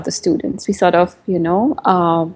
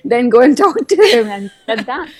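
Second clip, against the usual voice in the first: loud, much higher burst of delight; excited; 6 semitones higher, 3 dB louder than usual. Retold or imitated. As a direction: cheer it out, thrilled. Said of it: "And I'm like".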